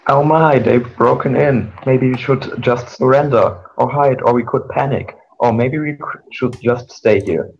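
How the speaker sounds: a hint of a fretful whining pony; lightly voiced anxious moan; moaning Fluttershy. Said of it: "moaned Fluttershy".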